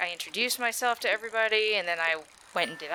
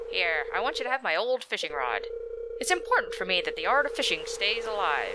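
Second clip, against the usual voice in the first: Willy voice; 4 semitones higher than usual. Acted. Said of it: "the voice I gave him".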